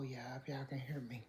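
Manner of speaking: breathy whisper to the viewers. Real, not acted. Checking viewers can hear her, whispered. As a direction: barely voice it, house asleep. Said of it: "I'm kinda talking low".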